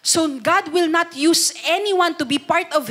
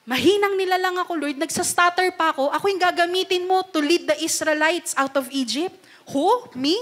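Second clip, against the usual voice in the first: lightly voiced pleading Moses, higher; whiny Moses; 5 semitones higher, faster than usual. Preacher voicing Moses doubting God's call, mock pleading. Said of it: "tinanong niya ni Moses".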